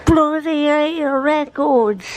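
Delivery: slow, high-pitched fake British; horrible British accent. Vlogger playing a Brit off to see records, bad British accent. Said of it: "That was a horrible British accent".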